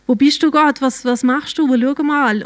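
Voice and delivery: pleading with God. Retold or imitated. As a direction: call up to God in distress, as remembered. Retold desperate cry to God. (verzweifeltes Flehen zu Gott, nacherzählt)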